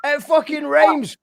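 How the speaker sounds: high, delighted cry of triumph; ecstatic, slowing on the second line; excited. Real, not acted. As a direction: shout it like you've won. Host celebrating the rhyme.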